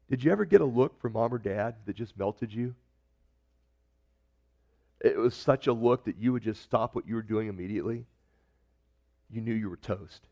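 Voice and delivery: normal talking voice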